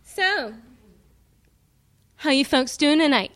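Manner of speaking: put-on loud old-school comic, working the room; brash nightclub comic with a mic; old borscht belt comic. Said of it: "You wanna hear Madonna do stand-up comedy?".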